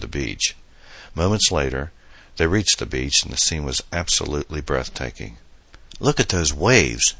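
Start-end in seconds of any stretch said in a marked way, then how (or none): 6.0-7.1 slow, eager exclamation; mild excited cry over the waves; exclaiming. Acted. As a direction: point out the waves with delight. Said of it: "Adam exclaimed".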